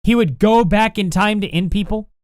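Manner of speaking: stunned, scoffing echo; incredulous repeat. Real, not acted. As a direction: repeat it back like you can't believe it. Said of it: "I'm not even entertaining that".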